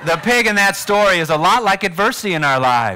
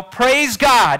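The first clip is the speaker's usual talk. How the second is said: shouted praise; 3 semitones higher than usual. Shown as a demonstration. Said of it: "as loud as you possibly can".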